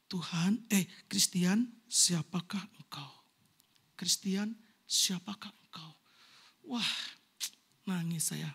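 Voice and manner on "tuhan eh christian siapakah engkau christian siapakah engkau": lower, slow, solemn question; voice of God. Retold or imitated. Pastor voicing God asking him who he is, low and slow. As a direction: let God's question land heavy and slow. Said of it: "Tuhan bilang gini".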